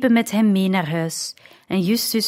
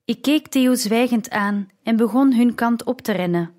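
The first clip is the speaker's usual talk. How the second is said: ordinary delivery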